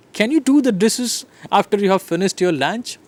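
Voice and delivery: YOU lifted and stressed. Shown as a demonstration. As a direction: lean on the word you. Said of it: "I'm stressing different words".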